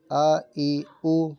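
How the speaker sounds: slow, even vowels, no jerk or stretch; حمزہ زبر آ read short and steady; correct drill reading. Shown as a demonstration. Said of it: "پڑھیں".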